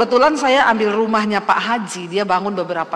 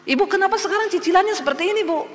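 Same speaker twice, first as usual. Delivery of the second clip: fast, much higher scolding; angry landlord; 10 semitones higher, faster than usual. Retold or imitated. Landlord scolding a late-paying tenant, fast and high. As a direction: scold her for the short payment. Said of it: "Pak Hajinya marah-marah".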